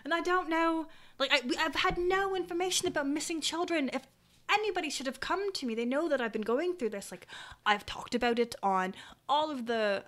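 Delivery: lightly voiced worried parent, lively and insistent; worried parent character. Parent tells adventurer of missing children, mildly exasperated. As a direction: plead the case with mild frustration.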